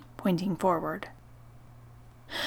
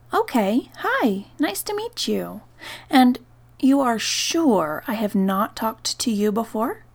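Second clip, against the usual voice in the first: put-on higher, bright-pitched talk to a small child; voice for young kids; 4 semitones higher, 6 dB louder than usual. Greeting a four-year-old spirit: higher kid-friendly voice. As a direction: talk up high like greeting a toddler. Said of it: "the one I use for younger kids".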